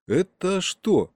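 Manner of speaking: high, slow bewildered question. A narrator's reading. Boy looking at fallen uncle, bewildered. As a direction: ask slowly, voice lifted in shock.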